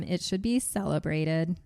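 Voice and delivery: flat robotic reading. Shown as a demonstration. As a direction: read it like a machine. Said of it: "You read that like a robot".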